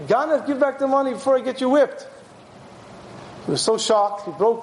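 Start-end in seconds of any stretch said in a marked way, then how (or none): 0.1-2.1 retold rebuke in a raised pitch; stern threat. Rebbe warns the ganav who denies it, sternly. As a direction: threaten him with mock sternness.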